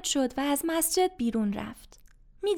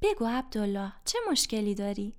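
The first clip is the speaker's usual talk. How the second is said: softer and gentle, a kind elder; a gentle imam coaxing a troubled man; kindly; 6 semitones lower, 4 dB quieter than usual. Acted. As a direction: speak kindly, inviting him to open up. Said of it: "امام با مهربانی گفت".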